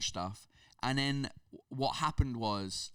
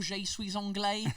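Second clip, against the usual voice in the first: je suis anglais said slow and high with English vowels, anglais as "ong-lay"; hammed-up English accent in French; fake English accent in French; 8 semitones higher, slower than usual. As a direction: drag out je suis anglais like a clumsy English learner. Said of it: "cet accent de merde".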